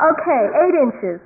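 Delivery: mock haggling, offer by offer; bargaining. Cartoon boy bargaining with the sky over inches, playful haggling. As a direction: wheedle for a smaller deal, lightly acted. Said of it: "You know, bargaining".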